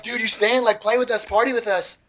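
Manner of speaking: high-pitched, easygoing party-guy imitation; friendly rock star. Famous drummer asking a young fan to join the party, inviting.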